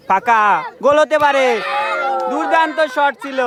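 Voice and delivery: frantic football commentary. Real, not acted. Live commentary on a chance.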